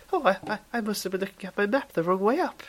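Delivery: squeaky high voice like a schoolboy; deliberately high little schoolboy voice. Real, not acted. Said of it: "I've gone high pitch".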